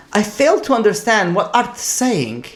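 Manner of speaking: lightly put-on, archaic English speech; English accent. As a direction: imitate a very proper English accent. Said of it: "he says in a perfect English accent".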